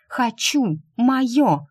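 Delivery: high, loud, stamping demand; childish tantrum shout. Acted. Inner hurt girl stamps her feet demanding, tantrum shout. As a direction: yell it like a spoiled little girl. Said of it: "кричала, топая ножками".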